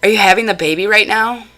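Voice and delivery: quick, high, loud alarmed questions; mimicking him bursting in. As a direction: play the nosy relative barging in, all worked up. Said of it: "he would burst into my room and say".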